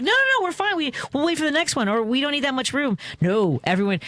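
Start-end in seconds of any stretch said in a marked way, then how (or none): 0.0-3.0 high, flustered no-no-no; pitched-up embarrassed politeness; polite protest. Retold or imitated. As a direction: wave them off, embarrassed and eager. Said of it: "we were like".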